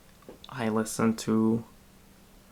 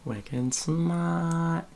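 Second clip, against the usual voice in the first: put-on playful Boston accent, r dropped in smart; 5 semitones higher than usual. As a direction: toss it off like a Bostonian. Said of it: "every time I talk in a Boston accent".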